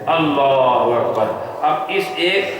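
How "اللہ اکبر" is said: slow takbir. Shown as a demonstration. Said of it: "پھر کیا کہتے ہو".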